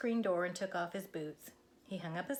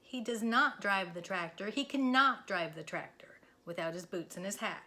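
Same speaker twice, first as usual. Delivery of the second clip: whispered like a secret. Acted. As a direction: lean in and whisper the big idea.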